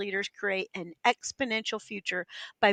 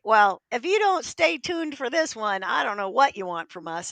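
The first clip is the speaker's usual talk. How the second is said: excited welcome; 6 dB louder than usual. Real, not acted. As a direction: stretch the welcome out with delight. Host warmly welcomes the guest.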